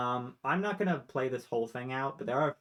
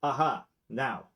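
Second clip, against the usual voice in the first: noble dog voice; 4 semitones higher, 4 dB louder than usual. Acted. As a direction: ask like a curious dog. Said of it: "the first one who says".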